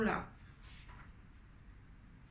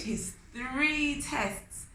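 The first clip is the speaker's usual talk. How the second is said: drawn out; 6 semitones higher, much slower than usual. A narrator's reading. Gloating narration.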